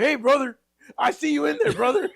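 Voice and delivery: mock coaxing boyfriend. Boyfriend calling through the door.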